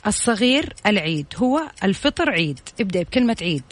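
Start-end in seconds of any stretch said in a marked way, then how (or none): 0.1-2.6 backwards speech. Shown as a demonstration. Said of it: "نفس الجملة اللي أنا قلتها ولكن بالعكس".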